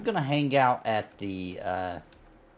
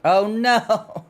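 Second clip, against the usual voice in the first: surprised; 10 semitones higher, 7 dB louder than usual. Real, not acted. Learns he left a bag.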